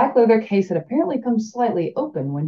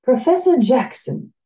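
slow, higher, louder call of a name; understated power; 6 semitones higher, 5 dB louder than usual. Acted. Blind teacher calling the professor with understated power. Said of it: "it rang with an air of understated power".

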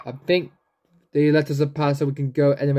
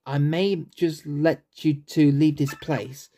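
a hint of a weary old tree; old man's voice. Old tree bargaining with the heroes, lightly voiced old man. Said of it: "the old grandpa voice".

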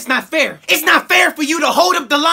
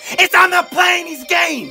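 corrected shout; 2 semitones higher than usual. Shown as a demonstration. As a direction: yell the right wording, slowly. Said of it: "I ain't playing your games?".

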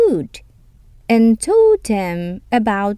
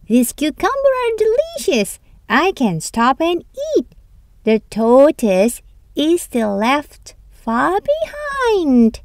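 smug hare; 5 semitones higher than usual. Acted. Hare gloats in the cucumber field, lightly voiced. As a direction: gloat over the food.

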